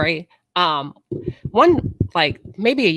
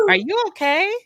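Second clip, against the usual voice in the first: gentle concern; 10 semitones higher than usual. Retold or imitated. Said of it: "he said".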